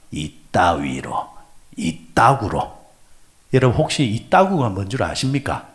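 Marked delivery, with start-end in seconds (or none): 0.1-2.8 angry 이따구로. Retold or imitated. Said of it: "화가 차면 어떻게 말하느냐니까".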